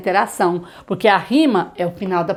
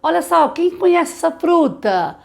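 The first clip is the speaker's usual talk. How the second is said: teacher to class; 8 semitones higher than usual. Shown as a demonstration. Teacher asks class brightly.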